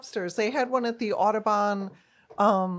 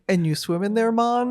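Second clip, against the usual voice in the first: mock Jamaican accent; 2 semitones higher, 4 dB louder than usual. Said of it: "not to do an accent".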